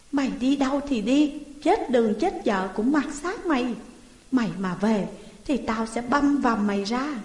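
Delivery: mildly voiced harsh sister-in-law driving him out; scolding. Sister-in-law throwing the boy out, mild angry scolding. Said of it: "Khố Thị chửi bới".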